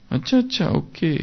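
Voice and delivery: amazed realization. Shown as a demonstration. Teacher showing students how to read in wonder, amazed. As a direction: sound as if it just dawned on you. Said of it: "आश्चर्य से पढ़ना है उसको".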